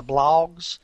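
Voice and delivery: "blogs" with a drawn-out Alabama vowel; Alabama accent. Shown as a demonstration. Guest jokes how Alabama says "blogs", in a Southern accent. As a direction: say "blogs" like "blawgs", Alabama style. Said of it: "as we say here in Alabama".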